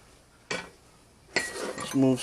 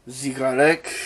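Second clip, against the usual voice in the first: mock-French cooking-show accent; bad French accent; 4 dB louder than usual. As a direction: put on a cheesy French accent. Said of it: "a really bad French impression".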